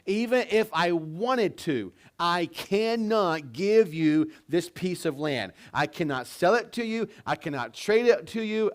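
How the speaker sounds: emphatic refusal. Acted. Naboth turning down the king's offer for his land, emphatic. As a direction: refuse adamantly, point by point. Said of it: "Naboth's answer was an emph-, emphatic no".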